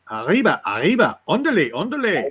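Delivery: swooping cartoon mouse cry; Speedy Gonzalez. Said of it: "Is that Speedy Gonzalez".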